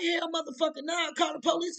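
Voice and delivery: loud, high call for police; alarmed shout. Retold or imitated. Telling sister after the break-in, alarmed shout. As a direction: yell it, alarmed and fed up.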